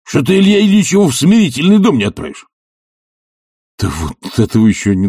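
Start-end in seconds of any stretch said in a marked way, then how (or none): 0.0-2.5 higher, louder indignant outburst; Tarantyev's raised scandalised cry; indignant bully. Acted. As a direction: demand the old man be locked up. Tarantyev demands punishment.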